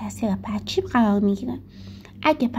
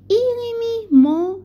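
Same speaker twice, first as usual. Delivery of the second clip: slow demo; 10 semitones higher, 4 dB louder, slower than usual. Shown as a demonstration. Teacher reads example question slowly.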